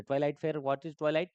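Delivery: normal talking voice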